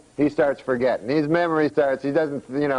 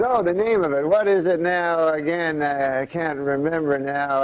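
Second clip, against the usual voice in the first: put-on forgetful old uncle. Forgetful uncle groping for a word.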